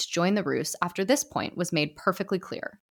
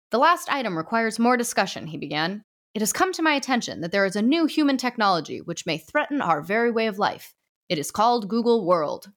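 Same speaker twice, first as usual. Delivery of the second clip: a lightly raised, formal judge voice; stern ghost judge; 4 semitones higher than usual. Acted. Judge addressing the ghost society, lightly formal. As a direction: pronounce it from the bench, gently raised.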